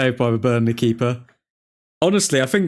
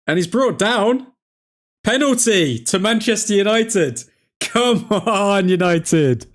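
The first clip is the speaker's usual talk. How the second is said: excited cheer; 6 semitones higher than usual. Real, not acted. Fan cheering a penalty for his team, excited. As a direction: celebrate the penalty call. Penalty given during watchalong.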